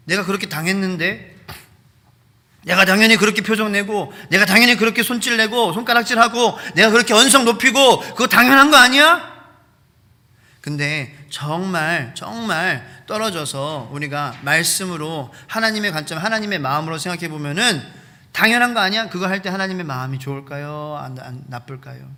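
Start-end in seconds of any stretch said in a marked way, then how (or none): 0.1-1.4 aggrieved complaint. Acted. Wronged person complains. 2.6-9.3 building from grumble to loud indignant yelling; indignant outburst. Acted. Preacher voices an angry offended person. 18.3-19.1 higher, louder "isn't it obvious"; indignant retort. Acted. Repeats the indignant quote.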